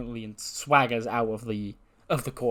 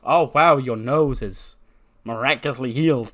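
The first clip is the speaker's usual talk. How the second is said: hammed-up surprise; mock amazement; 7 dB louder than usual. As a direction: act wowed to expose a lie. Feigned amazement at exposed fake injury.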